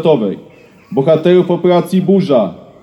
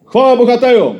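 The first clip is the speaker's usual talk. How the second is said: solemn proclamation; 6 semitones higher than usual. Real, not acted. Closing ceremonial exclamation.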